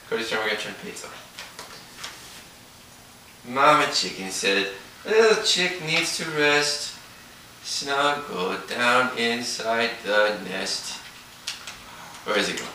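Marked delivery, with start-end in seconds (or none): 3.5-11.0 slow, sing-song bedtime reading; reading to a toddler. A narrator's reading. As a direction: read it slowly to a little one. Reads picture book to toddlers.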